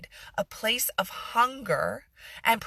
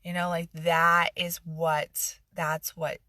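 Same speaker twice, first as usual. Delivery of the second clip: sarcasm; 4 semitones lower than usual. Pretend. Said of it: "you can hear that sarcasm".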